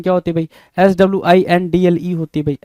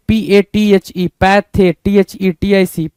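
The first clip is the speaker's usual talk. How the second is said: slow spelling; slower than usual. Shown as a demonstration. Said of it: "teacher spells word slowly".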